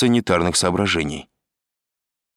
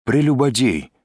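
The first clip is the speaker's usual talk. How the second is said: cheeky higher-pitched answer with a smirk; Изя, smirking; 6 semitones higher than usual. A narrator's reading. Detainee answers the interrogator about marital status, smirking. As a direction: say it through a grin, pitched up. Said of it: "ответствовал Изя, ухмыляясь".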